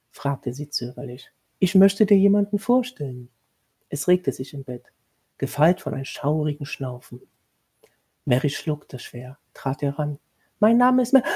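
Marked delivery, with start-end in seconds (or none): 1.6-3.3 higher, louder, formal commanding tone; stern lady of the house. A narrator's reading. Lady of the house instructing the new governess, stern and formal. 10.6-11.2 higher, louder, broken off in shock; startled cut-off. A narrator's reading. Mary introducing herself, cut off by sudden horror. Mary sees monster, stifles scream.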